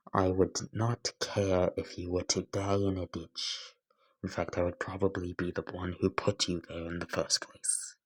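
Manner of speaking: even, restrained rejection; cold, deadpan character. Acted. Izuku rejecting Bakugo's friendship, coldly deadpan. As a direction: deliver the hatred evenly, without heat.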